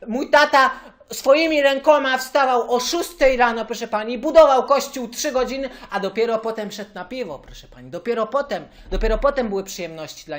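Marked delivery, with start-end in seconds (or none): 0.1-5.7 proud louder boast. Acted. Caller boasts about his father.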